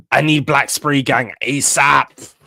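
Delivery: slow, loud, pleading demand. Real, not acted. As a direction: punch "need" and drag out the plea. Repeats the plea louder.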